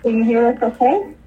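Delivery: speaking through a face mask; muffled voice behind a mask. Real, not acted. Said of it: "you sound a little muffled".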